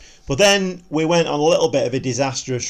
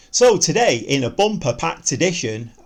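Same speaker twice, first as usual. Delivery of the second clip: TV broadcaster; 2 semitones higher than usual. Acted. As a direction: open it like a TV host. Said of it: "I'm sounding like a T V broadcaster".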